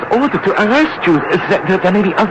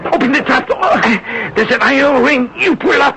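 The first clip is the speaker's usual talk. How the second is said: rising, urgent hurry; panicked hurry; 3 semitones higher than usual. Acted. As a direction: hurry before the Gestapo enters. Rushing to hide the machine.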